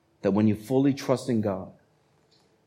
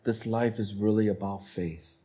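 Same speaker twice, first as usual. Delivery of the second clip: quiet prayer; 5 dB quieter than usual. Retold or imitated. Believer quietly realizing life is about faith, tender. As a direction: pray it softly to God. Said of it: "That's when you realize".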